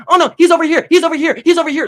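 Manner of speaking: high, loud panicked squeal; mock frantic tattling; freaking out. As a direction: shriek it like a tiny girl losing it. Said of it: "freaking out".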